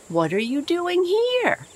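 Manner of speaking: high and loud amazed question; a boy astonished to meet his uncle on the river; surprised. A narrator's reading. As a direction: ask it full of surprise.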